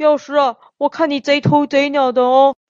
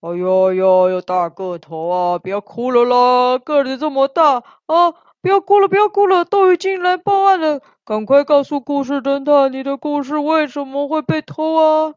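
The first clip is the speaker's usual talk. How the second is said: soothing. Acted. Comforting the crying big guy, soothing. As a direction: coax him gently like a big crying kid.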